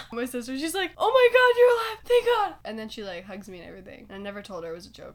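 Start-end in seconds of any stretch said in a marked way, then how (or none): 1.0-2.5 high, loud mock relief; imitated overjoyed relief. Sister learning her sibling is alive, imitated relief. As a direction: play a sister bursting with relief.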